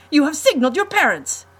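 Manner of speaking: high, loud accusing shout; furious accusation. Acted. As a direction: hurl the blame at him. Count accuses the boy.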